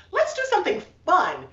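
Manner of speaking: high, eager suggestion; excited. Retold or imitated. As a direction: pitch it up, eager for fun. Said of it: "We're like".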